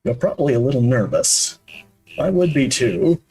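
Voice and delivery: put-on gentle, reassuring older man; calming tone. Man greeting a nervous visitor with tea, very calming. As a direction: put a nervous guest at ease, unhurriedly. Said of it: "in a very calming tone".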